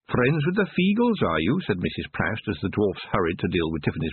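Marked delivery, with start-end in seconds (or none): 0.1-1.6 high, knowing crone; old witch voice. A narrator's reading. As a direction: purr it like a sly witch. Proust voiced.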